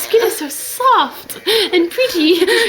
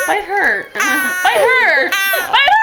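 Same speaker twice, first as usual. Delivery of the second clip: laughing chant that builds in pitch; giggly, growing goading; playful egging on; much slower than usual. Pretend. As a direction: urge it on, rising with each repeat. Playfully urging it to bite friend.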